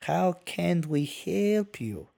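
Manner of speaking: put-on high, slow, thick Mexican-accented English; guttural H's in a careful, slow Mexican accent. A narrator's reading. Julio tries his English greeting on customers, thick Mexican accent. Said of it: "The accent was thicker than his hair".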